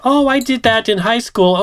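high, understanding secretary voice; imitated secretary. Secretary accepting her boss's apology, imitated high voice. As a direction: lift it high for the forgiving secretary. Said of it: "And she's like".

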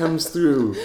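hammed-up hype. Host finishing the teaser for viewers, mock announcer. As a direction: land the reveal like a trailer. Hyping up the big interview.

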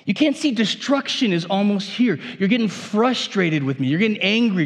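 the donkey begging its master to look; voiced as the faithful donkey; pleading donkey. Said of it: "we say".

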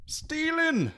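a mob of wee men bellowing; Feegle crowd shout. A narrator's reading. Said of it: "shouted the blue men".

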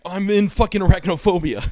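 loud, high panicked yell; freaking out. Retold or imitated. Child finding spiders after the movie, freaking out. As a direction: act out a full-on freak-out. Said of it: "I'm, like, freaking the fuck out".

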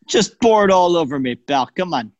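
playful mock-Italian coaxing; Italian accent. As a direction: coax in a put-on Italian accent. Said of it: "we're doing an Italian accent".

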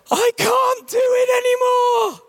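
high, slow, strained cry of defeat; breaking-point outburst. Retold or imitated. Stressed pastor snapping at his wife by the door. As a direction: let it burst out as you hit the sideboard. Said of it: "slammed my fist ... and I said".

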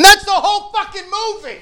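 high-pitched laughing punchline. Real, not acted. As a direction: laugh your way through it, voice jumping way up.

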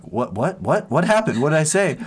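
high, increasingly loud confused questions; baffled surprise. Retold or imitated. Missionary stunned by the tribe's cheering, baffled. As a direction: imitate someone bewildered, pitch jumping up.

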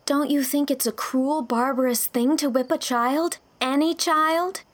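high, loud, impassioned appeal; earnest exclamation. A narrator's reading. Young teacher appealing against cruelty to children, earnest. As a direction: exclaim earnestly, building on the last words. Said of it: "exclaimed Anne, her face flushing with earnestness".

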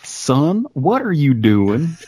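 badly faked Australian lilt; bad Australian accent. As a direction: do a showy mock Australian. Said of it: "Australian accent?".

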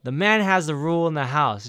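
hammed-up proud father laying down the law; mock dad rant. Voicing his dad declaring house rules, mock loud. Voicing dad's rule, building up.

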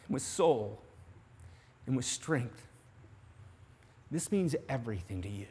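softly pleading to the guilty listener; hushed preaching. Real, not acted. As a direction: lean in and bring it down low for the convicted. Preacher drops voice on sin.

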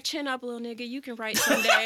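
patronising laugh. Retold or imitated. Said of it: "You was like".

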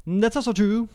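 high, put-on agreeing voice; silly high voice. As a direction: echo it in a comically high voice. Comic repeat of own agreement.

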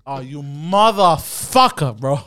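slow, drawn-out exasperated curse; relieved curse. Retold or imitated. To his girlfriend after the prank, a slow relieved curse. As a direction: stretch it out in relief. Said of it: "And I go".

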